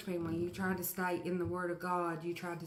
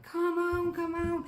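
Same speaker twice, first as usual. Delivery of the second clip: high, louder urging; will it to run faster; excited urging; 10 semitones higher, 5 dB louder than usual. Retold or imitated. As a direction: viewer urging a lizard on, high and loud. Cheering lizard.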